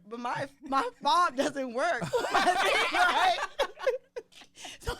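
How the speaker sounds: high, slow words breaking into real laughter; laughing while talking. Real, not acted. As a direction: struggle to get it out through laughs. Laughing at her broken key fob.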